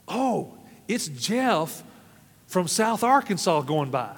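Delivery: slow, drawn-out, lightly put-on crowd voice; bystander announcing. Onlooker tells the crowd who is passing, slow put-on voice. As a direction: stretch it out like a gossiping onlooker. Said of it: "somebody says".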